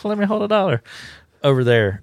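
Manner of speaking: high, teasing put-on voice; lightly voiced creepy stranger calling out; a creepy old man hamming it up from the shadows; mock creepy old man voice.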